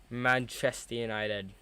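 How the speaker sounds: mid-yawn, drawn out. Real, not acted. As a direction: say it through a yawn. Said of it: "Sorry, I keep yawning".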